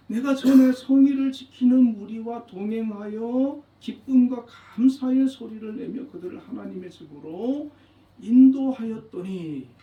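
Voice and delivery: swelling, aching recitation; heartfelt rereading. Acted. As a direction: read it like a painful, fond memory. Rereading verse with feeling.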